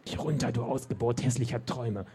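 witch's mild mock shriek at the giant; witch screeching. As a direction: spit the insult like a cornered witch. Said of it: "schrie die Hexe".

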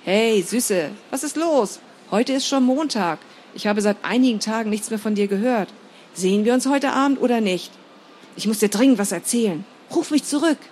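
Dominik's message on the answering machine; friend on answering machine. Acted. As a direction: leave an eager message on the machine. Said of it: "Anrufbeantworter sprang an".

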